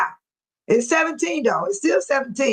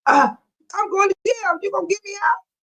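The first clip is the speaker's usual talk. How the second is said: higher, laughing plea to be bailed out; mock pleading arrestee; 9 semitones higher than usual. Imagining jail, she begs the chat to bail her out, half laughing. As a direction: beg half-laughing for someone to get you out. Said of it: "What I wanna say".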